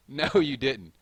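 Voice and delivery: slow, loud laughing "no, you didn't"; amused playful protest; laughing disbelief. Real, not acted. Reacting to Eastman guess.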